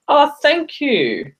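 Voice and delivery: bright, laughing thank-you, voice jumping high. Real, not acted. Flattered by a viewer's compliment on her accent, laughing.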